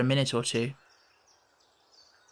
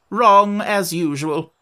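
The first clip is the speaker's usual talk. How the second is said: curt retort; 4 semitones higher, 6 dB louder, slower than usual. A narrator's reading. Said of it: "said the Red Queen".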